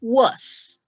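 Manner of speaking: British was. Shown as a demonstration. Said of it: "en Inglaterra específicamente, ellos van a decir".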